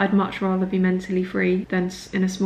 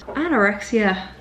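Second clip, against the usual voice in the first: defiant jokey Irish brogue, badly faked; mock Irish accent telling the illness to get lost; awful Irish accent; slower than usual. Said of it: "That is an awful Irish accent".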